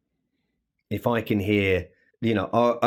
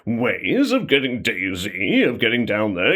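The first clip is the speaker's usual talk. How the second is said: Jim Carter. Shown as a demonstration. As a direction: draw out words in a big butler's voice. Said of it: "it is a lot lower than where mine sat".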